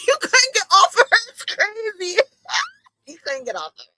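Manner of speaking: high squeal through laughter; laughing hard. Real, not acted. Streamer teasing about the pregnancy, helpless laughter.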